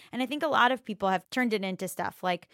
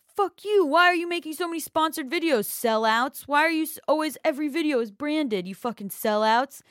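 mock furious yell, pitched way up and louder; hammed-up outraged fan shouting sellouts; angry commenter; 6 semitones higher, 5 dB louder than usual. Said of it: "people would comment and go".

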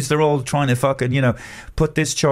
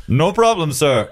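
scam agent voice; 4 semitones higher, slower than usual. Retold or imitated. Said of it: "I'm not gonna do the accent".

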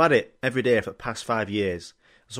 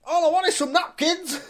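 very high squeal, different voice; dragged-off customer. Retold or imitated. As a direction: wail it while being dragged away by security. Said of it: "It was like".

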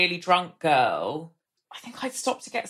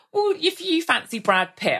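arguing back; 10 semitones higher than usual. Retold or imitated. Arguing back with drunk girl.

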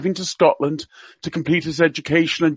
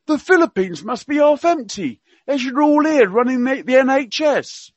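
higher, hammed-up Cockney accent; Prince Philip in Cockney; 9 semitones higher than usual. Radio guest quoting royal gaffes to listeners, mock Cockney accent. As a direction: play the old duke's gaffes in mock Cockney. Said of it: "he spoke with a Cockney accent".

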